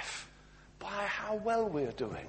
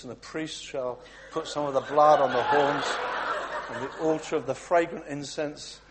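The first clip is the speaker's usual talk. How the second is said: laughing read; 5 dB louder than usual. Acted. Reading Leviticus, laughing.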